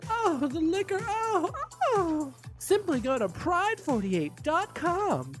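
campy drag queen. Acted. Drag host promo clip.

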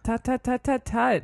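playful scolding tut tut; tsk tsk disapproving. Acted. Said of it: "tsk tsk at the arguing hosts".

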